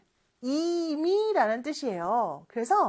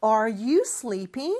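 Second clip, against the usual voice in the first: slow model reading; 2 semitones lower, much slower than usual. Shown as a demonstration. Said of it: "이렇게도 물어볼 수 있겠죠".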